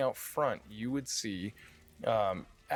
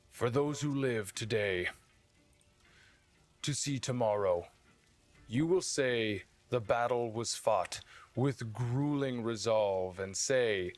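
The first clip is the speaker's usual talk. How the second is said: rousing speech. Acted. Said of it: "and he would go".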